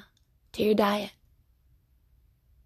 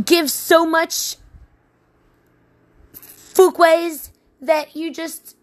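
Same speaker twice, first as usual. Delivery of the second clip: much higher, slow squealy voice; high squeal; 8 semitones higher, 5 dB louder, slower than usual. Acted. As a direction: squeal it out like a goofy cartoon.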